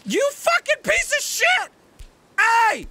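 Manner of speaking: high, loud furious screech; raging scream. Real, not acted. Gamer screaming at the game after a fall. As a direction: scream with full rage.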